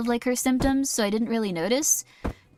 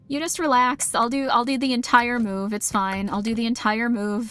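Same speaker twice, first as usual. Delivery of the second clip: louder self-pitying complaint, hammed up; mock martyr; 2 semitones higher, 4 dB louder than usual. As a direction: play the put-upon martyr, overdone.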